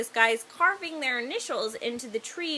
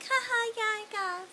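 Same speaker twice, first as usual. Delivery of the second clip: awkward laugh; 10 semitones higher, 4 dB quieter than usual. Retold or imitated. Awkward reply to compliment.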